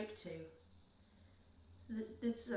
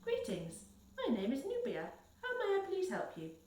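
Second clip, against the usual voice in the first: halting, learnt-by-rote phrases, rising in pitch; hesitant foreign learner reciting; faltering recital; 9 semitones higher than usual. A narrator's reading. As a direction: recite it timidly, one phrase at a time. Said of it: "recited in a faltering voice".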